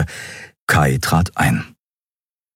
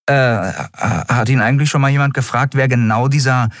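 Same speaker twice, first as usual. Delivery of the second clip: hesitant, higher-pitched crew member; cautious question; 7 semitones higher than usual. Acted. Miko asking who the mysterious mentor is, cautiously. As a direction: stammer in, then ask carefully, pitched up. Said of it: "fragte Miko vorsichtig".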